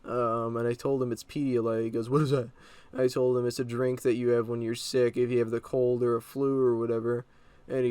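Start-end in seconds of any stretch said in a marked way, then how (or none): 2.1-2.5 mildly mock-angry question; imitated angry cop. Cop questioning teen about Pedialyte, mildly angry. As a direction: lightly mimic an irritable officer's demand. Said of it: "talking like an angry person".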